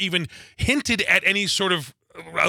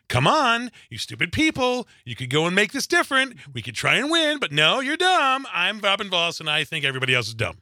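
mock condescending; 3 semitones higher than usual. Host mocking a politician advising his own party, exaggerated condescension. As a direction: talk down to them, pitch lifted. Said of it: "he's sounding condescending".

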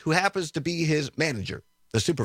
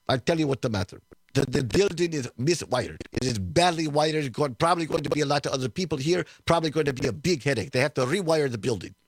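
put-on Ukrainian accent. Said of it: "I don't do a very good Ukrainian accent".

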